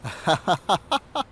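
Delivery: rising, bubbling laugh. Acted. Amused reaction before praise.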